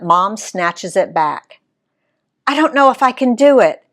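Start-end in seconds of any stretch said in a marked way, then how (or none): 2.5-3.8 put-on high, fast, childish whine; whining. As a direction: whine like a four-year-old. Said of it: "she whines like she's four".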